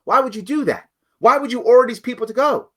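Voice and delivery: a lightly voiced objecting listener; mock the doubter; imagined critic. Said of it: "You might say".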